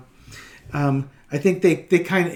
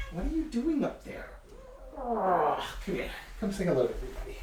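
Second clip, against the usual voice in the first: much higher, softer cooing; high pet voice; 6 semitones higher, 12 dB quieter, faster than usual. Real, not acted. Coaxing the cat on camera.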